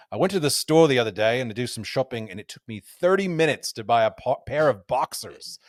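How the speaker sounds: put-on a fading Scottish accent slipping toward Australian. Golf podcaster quoting Paul Lawrie in a slipping Scottish accent. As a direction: quote the Open champion in a Scottish accent. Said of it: "Definitely pulled up out of that Scottish accent there".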